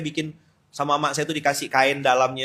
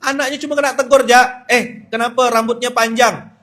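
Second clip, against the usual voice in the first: mock indignation; 8 semitones higher, 8 dB louder than usual. Mimicked indignation at school telling-off.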